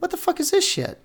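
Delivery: very high, incredulous squeal of disgust; a fan mocked for complaining, high and indignant; mock outraged fan. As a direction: play a betrayed fan who can't believe it. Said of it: "And everybody's like".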